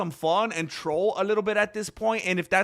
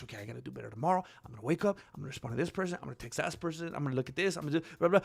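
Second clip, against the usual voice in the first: rushed resolve; 6 dB quieter, much faster than usual. Acted. Acting rushed plans for tomorrow.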